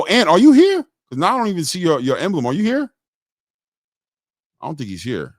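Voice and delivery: usual speaking voice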